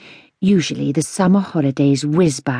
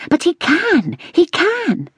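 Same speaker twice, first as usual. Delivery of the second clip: impatient; 12 semitones higher, slower than usual. A narrator's reading. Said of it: "becoming impatient".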